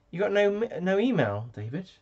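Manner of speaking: high, loud indignant cry; mock outrage. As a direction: shout it in pretend shock.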